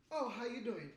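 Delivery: lightly chipper greeting, starting high and settling; same texting voice. Shown as a demonstration. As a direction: demonstrate a happy inner reading voice. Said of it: "it's the same exact voice".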